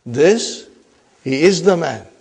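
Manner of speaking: "This" set apart by a pause, then "he is" stressed; emphatic "he is the man" after a held-off "This". Shown as a demonstration. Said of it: "for emphasis".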